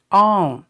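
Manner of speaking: on as in English on. Shown as a demonstration. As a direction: say on like on something. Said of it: "like the English O N".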